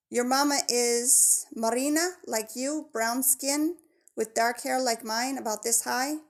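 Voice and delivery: a hint of a friendly girl with a Spanish accent; friendly jungle girl, gently accented; lightly voiced Spanish girl. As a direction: describe his mom, eager and helpful, lightly accented.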